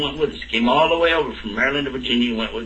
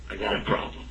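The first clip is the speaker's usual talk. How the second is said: tearful; 3 semitones lower, 9 dB quieter than usual. Retold or imitated. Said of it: "just started crying".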